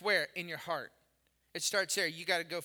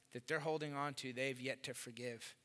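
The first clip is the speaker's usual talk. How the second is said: soft emphasis; 7 semitones lower, 11 dB quieter than usual. Acted. Quiet emphasis on unforgiveness.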